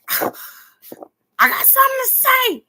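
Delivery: very high, slow, loud wail; hammed-up crying plea; mock wailing cry. Acting out calling Razia at night, mock wailing cry.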